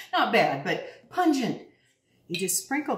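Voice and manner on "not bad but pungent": laughing correction. Real, not acted. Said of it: "it's really bad".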